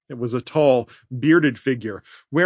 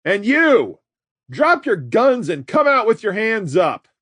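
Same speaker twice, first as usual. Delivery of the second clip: higher, loud commanding shout; louder shout; 8 semitones higher, 4 dB louder than usual. A narrator's reading. Red shouting orders at Alice, loud command. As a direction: bark orders across the yard. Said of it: "Red's voice grew louder".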